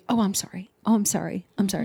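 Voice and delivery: mildly meek, repeated sorries; a touch of over-apologizing; weak apology. Shown as a demonstration. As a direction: toss out little reflexive apologies. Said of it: "it sounds weak".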